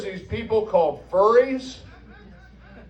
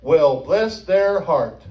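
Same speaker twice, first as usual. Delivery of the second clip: Southern saying; 2 semitones lower, much slower than usual. Retold or imitated. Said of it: "There's a saying in the hou-, South".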